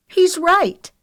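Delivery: put-on very high, loud girl's voice; disdainful agreement. A narrator's reading. Renee turns against Lexi, disdainful. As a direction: side with him sharply. Renee sides with Wiley, loathing look.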